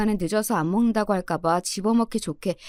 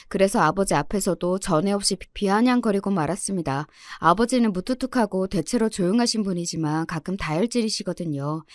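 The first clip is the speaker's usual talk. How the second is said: ordinary delivery, nothing marked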